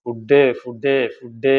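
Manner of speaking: drawn-out mock cry for food; mock wailing. Teacher voicing hungry chicks' cry for food, mock wailing. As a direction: call it out as a stretched, pretend wail. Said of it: "എന്ന് പറഞ്ഞ് നിലവിളിക്കുക".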